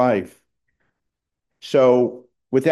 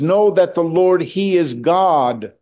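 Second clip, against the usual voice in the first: reading aloud; 3 semitones higher than usual. Shown as a demonstration. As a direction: proclaim the psalm with rising conviction. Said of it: "It says".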